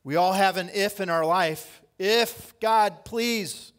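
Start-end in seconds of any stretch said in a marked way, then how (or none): 2.0-3.7 pleading prayer. Acted.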